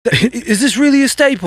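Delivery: lightly put-on British accent; doubtful, halting British-accented question; Gordon Ramsay. Co-host voicing the chef doubting the dish, British accent. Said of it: "every time you do that accent".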